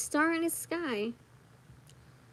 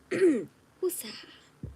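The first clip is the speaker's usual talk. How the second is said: a hushed who's that; whispered question; 6 semitones higher than usual. Real, not acted. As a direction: whisper it, curious. Reader reacting to a card.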